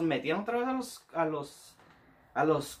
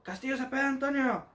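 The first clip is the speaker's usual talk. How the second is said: shouted name; 9 semitones higher than usual. Retold or imitated. Soldier calling roll across the yard, shouted.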